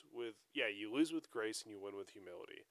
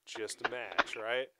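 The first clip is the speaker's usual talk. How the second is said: calming tone; 3 semitones higher, 18 dB louder, much slower than usual. Retold or imitated. Calming down rival coach.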